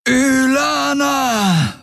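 high, drawn-out bellow of her name; furious roar. A narrator's reading. Soldier yells at the fleeing enemy, roaring. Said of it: "brüllte er".

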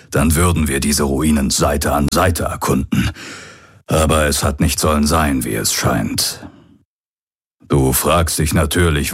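lightly voiced old pirate, rueful; a hint of a regretful father figure. Old pirate addresses his boy. (leicht angedeuteter alter Pirat, wehmütig)

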